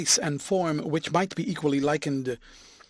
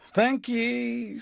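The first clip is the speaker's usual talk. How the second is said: deliberately; 8 semitones higher than usual. A narrator's reading. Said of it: "said the driver very deliberately".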